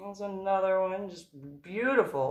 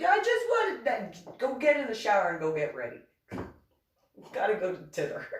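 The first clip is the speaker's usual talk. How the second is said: high sheepish voice; 6 semitones higher than usual. Retold or imitated.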